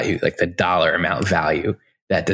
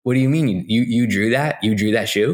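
incredulous; 4 semitones higher than usual. Retold or imitated. Mock incredulous questioning of Hartmut.

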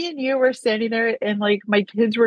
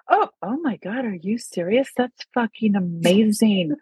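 excited Arthur. Retold or imitated. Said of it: "Arthur's, like, panic go into".

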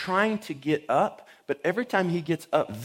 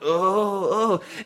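loud, higher-pitched "oh, oh"; fallen man's groans; 5 semitones higher, 4 dB louder than usual. Retold or imitated. Older man lying fallen, imitated pained "oh, oh". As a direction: imitate someone groaning on the ground. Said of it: "this guy's on the ground like".

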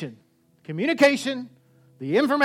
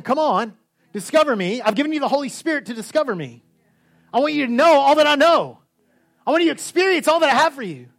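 higher, louder, building with urgency; God's eager voice; 6 semitones higher, 4 dB louder than usual. Retold or imitated. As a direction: plead as God longing to be found. Voicing God inviting us.

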